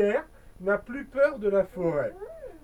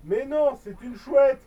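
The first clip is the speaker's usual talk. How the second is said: small inner voice; 2 semitones higher, 5 dB louder than usual. Acted. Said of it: "une petite voix dans sa tête".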